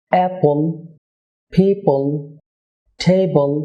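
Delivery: final L in "অ্যাপল, পিপল, টেবল" held back on mid-tongue; dark, unreleased L at word ends. Shown as a demonstration. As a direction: stop the final L without releasing it. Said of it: "জিহ্বার একটু মাঝ থেকে উচ্চারণ হবে".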